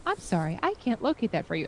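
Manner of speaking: Alexa voice. Retold or imitated. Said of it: "totally being in the A L E X A voice".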